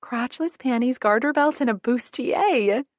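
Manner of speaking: loud, high, slowing on the last item; a big roaring announcement. A narrator's reading. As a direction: roar out the list, dragging the bustier. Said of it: "Jamie roars".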